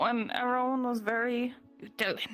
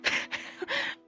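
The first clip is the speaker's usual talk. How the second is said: giggle; 3 dB quieter than usual. Real, not acted. Laughing at own pony idea.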